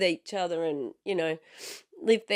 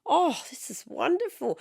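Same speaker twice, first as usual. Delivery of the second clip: dad impression; 8 semitones higher than usual. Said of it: "and he goes".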